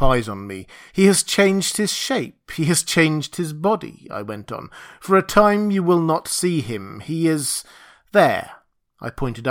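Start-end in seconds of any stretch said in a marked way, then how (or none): 0.9-4.1 high, deliberate proclamation; solemn declaration, lifted in pitch; raised voice. Acted. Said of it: "lifted up my voice". 5.0-8.6 higher, commanding proclamation; lifted, oratorical delivery; raised voice. Acted. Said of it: "lifted up my voice".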